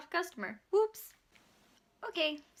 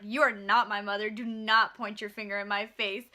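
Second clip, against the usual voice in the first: angry retort; 3 semitones lower, 4 dB louder than usual. Retold or imitated. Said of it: "I swat her hand away and I was like".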